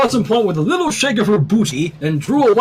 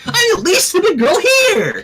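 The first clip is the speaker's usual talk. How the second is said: proud boast; 13 semitones higher, 3 dB louder than usual. A narrator's reading.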